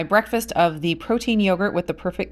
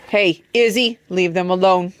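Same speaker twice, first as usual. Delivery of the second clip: louder warning call to the goat; 5 dB louder than usual. Real, not acted. Calling to goat away from chickens.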